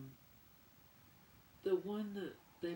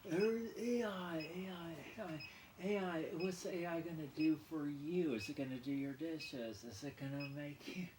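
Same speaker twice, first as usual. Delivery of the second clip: mocking AI lecture. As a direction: parody an AI enthusiast. Mocking someone lecturing about AI.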